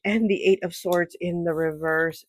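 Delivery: ordinary talk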